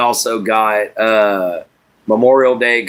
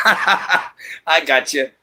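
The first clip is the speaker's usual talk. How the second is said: Jack Black impression; 2 semitones higher, much slower than usual. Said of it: "Jack Black in the Minecraft movie".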